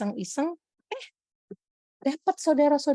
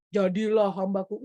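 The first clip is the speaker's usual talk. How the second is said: deeper, commanding call from above; booming voice of God; 5 semitones lower than usual. Shown as a demonstration. A hint of a booming God, shown as the wrong way. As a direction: proclaim it like a thundering god. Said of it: "Bukan kayak".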